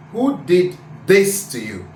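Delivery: THIS punched out, other words lighter; stress on THIS. Shown as a demonstration. Teacher showing sentence stress, THIS stressed. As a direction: lean on THIS. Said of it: "I am stressing this".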